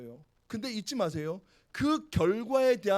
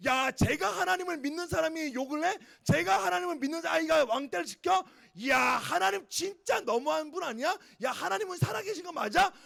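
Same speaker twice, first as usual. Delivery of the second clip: mocking scoffers; 4 semitones higher than usual. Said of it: "라고 하며 비방하고 욕하는 일들을".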